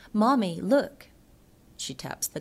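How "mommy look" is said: put-on bright louder child's call, a little higher; a five-year-old calling to her mother. Daughter in the car calls out to her mommy, lightly voiced. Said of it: "daughter, five, who spies".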